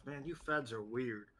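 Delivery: half-hearted grumble under the breath; mumbled under breath. Acted. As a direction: lightly mumble it to yourself while leaving. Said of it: "she mumbles under her breath".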